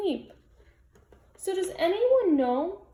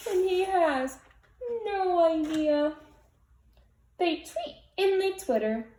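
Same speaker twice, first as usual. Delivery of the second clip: gentle storybook read-aloud; cozy read-aloud voice; picture book reading; slower than usual. A narrator's reading. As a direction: read it like bedtime for little kids.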